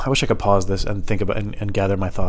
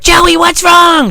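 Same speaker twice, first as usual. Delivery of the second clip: high, drawn-out falsetto shriek; loud, slow mock-female wail; imitating a worried woman; 9 dB louder, much slower than usual. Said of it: "But she's like".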